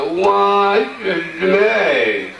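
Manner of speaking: slow, drawn-out laughing cry of "I'm dying"; mock wail. The teller cries out as if dying from laughter, slowly. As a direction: stretch it out and laugh through it.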